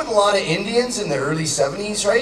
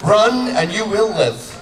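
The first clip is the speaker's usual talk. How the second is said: Braveheart speech; 5 semitones lower, slower than usual. Acted.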